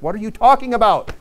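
high, puzzled what-are-you-talking-about; mock bewildered question; puzzled God.

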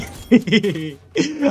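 gleeful high giggle; giggling. Real, not acted. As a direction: snicker at getting away with it. Giggles as enemy misses him.

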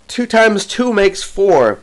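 high, slow mock-tragic cry. A narrator's reading. Wife cries out before swooning, mild high wail. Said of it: "and crying".

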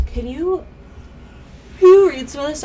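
congested, stuffy voice; talking through a stuffed nose; blocked nose. Real, not acted. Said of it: "I'm super congested all the time".

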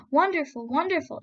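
loud, high cries of wonder; crowd shout. A narrator's reading. The crowd marvelling at the thread, shouting. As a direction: call out in amazement. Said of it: "shouted the people with one voice".

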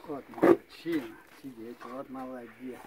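talking to a dog. Real, not acted. Owner praising dog softly.

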